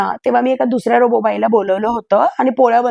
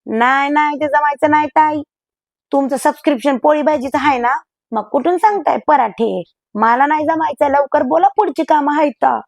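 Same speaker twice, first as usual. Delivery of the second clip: pushy robot maid; 3 semitones higher than usual. Acted. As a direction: dismiss the request like an impatient house help. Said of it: "Shanta लगेच म्हणाली".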